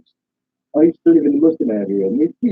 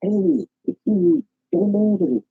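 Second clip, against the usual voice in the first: different inflection; 10 semitones higher than usual. Shown as a demonstration. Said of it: "different inflections".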